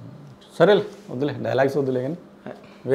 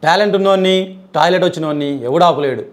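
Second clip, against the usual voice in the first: mock-heroic punch line, slightly raised; own film dialogue. Guest performs a dialogue he wrote himself, lightly hammed. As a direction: declaim it like a mild mass-hero line. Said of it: "నేను రాసిన dialogue చెప్తా".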